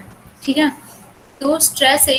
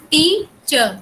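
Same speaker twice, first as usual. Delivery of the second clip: टीचर split as stressed टी, weaker चर; stress on first syllable; 3 semitones higher, much slower than usual. Shown as a demonstration. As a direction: demonstrate टीचर with the weight on टी. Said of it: "टी पे ज्यादा stress दे रहे हैं और चर पे कम".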